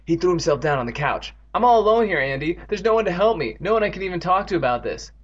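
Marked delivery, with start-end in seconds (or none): 1.5-5.1 self-pitying lament. Acted. Evan laments being all alone.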